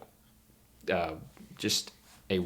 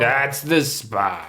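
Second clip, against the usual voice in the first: cat voice; 4 semitones higher, 4 dB louder, much slower than usual. Acted. Cat being scratched.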